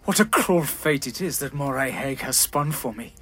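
calm with an edge of anger. Acted. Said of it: "tone was calm in manner, but carried with it a sharp edge of anger".

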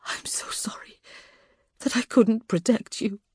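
grief-torn, raw plea. A narrator's reading. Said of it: "her voice raw".

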